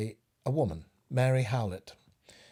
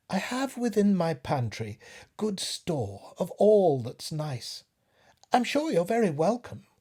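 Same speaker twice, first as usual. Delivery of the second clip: higher, sugary coaxing spider voice; cunning spider; 8 semitones higher, 5 dB louder, slower than usual. Acted. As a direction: sweet-talk the fly into your parlour. Cunning spider coaxes the fly.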